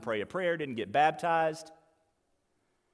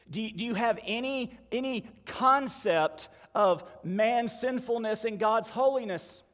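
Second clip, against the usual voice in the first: higher, mildly exasperated questioning; exasperated angel; 5 semitones higher than usual. Retold or imitated. Angel testing the thief on doctrine, mildly exasperated. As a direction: press the question, pitched up.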